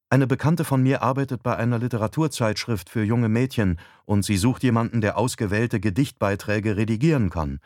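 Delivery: a hint of a coaxing wife; wife, persuasive. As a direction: explain the offer as the wife. Narrator voices wife explaining job.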